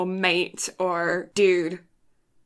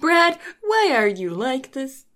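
lightly put-on exasperated friend; a hint of higher, questioning impression; Dakota; 3 semitones higher than usual. Co-host imitating a mutual friend, lightly put-on plaintive question. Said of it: "That's my Dakota impression".

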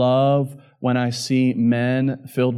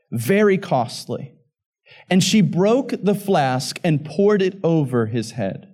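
raised, emphatic pulpit reading; Scripture reading aloud; 4 semitones higher than usual. Acted. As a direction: read the passage out to the congregation.

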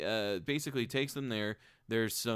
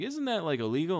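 much higher, disbelieving question; incredulous character; 7 semitones higher, 4 dB louder than usual. Retold or imitated. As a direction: squeak it out in disbelief. Character voiced in retold plot.

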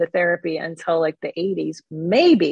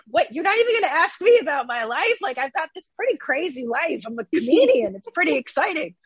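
incredulous; 8 semitones higher than usual. Retold or imitated. Retold reaction to parent.

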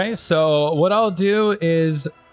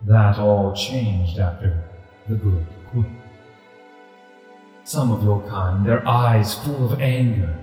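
deep rumbling voice. Acted. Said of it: "a deep rumbling voice emanates from this ghostly tiger".

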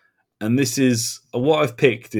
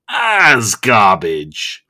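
mock fighting-talk growl, bursting out at the end; Korax's growl; 4 dB louder, much slower than usual. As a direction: build to a loud, growled punch on "as". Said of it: "I love the growl of his voice".

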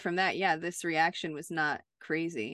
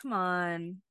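mildly exasperated; slower than usual. Retold or imitated. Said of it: "almost seemed a little more like".

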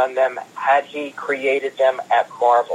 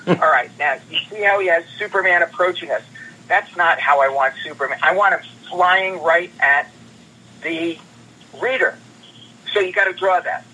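imitating Stan Lee; 4 semitones higher than usual. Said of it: "He goes".

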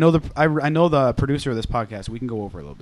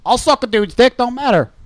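slightly raised mock voice; higher-pitched imitation of his buddy; mimicking a friend; 5 semitones higher than usual. Podcaster quoting his friend to the group, mocking imitation. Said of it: "Did he talk just like that".

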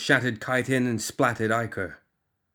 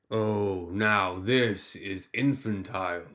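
booming tyrant; slower than usual. Acted. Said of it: "the tyrant boomed".

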